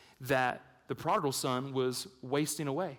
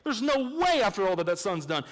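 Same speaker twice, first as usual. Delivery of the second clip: skeptical listener objecting; 5 semitones higher than usual. Pretend. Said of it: "And you might say".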